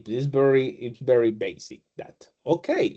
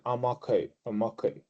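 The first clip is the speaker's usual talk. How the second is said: soft, lower, hesitant answer; quiet reply; 3 semitones lower, 6 dB quieter, faster than usual. Retold or imitated. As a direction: mumble it back unsure. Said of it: "I say".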